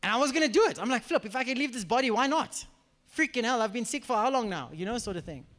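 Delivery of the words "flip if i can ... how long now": higher-pitched, fed-up retort to oneself; acted-out fed-up thought, voice lifted; exasperated resolve. Speaker retelling the urge to leave the body, exasperated. Acts out own defiant thought.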